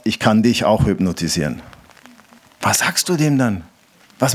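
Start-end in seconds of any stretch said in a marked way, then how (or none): 0.0-1.6 a lower voice with a mild threat; low menacing threat. Retold or imitated. Stranger threatening to hypnotize the preacher, a touch lower. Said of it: "guckt mich an und sagt".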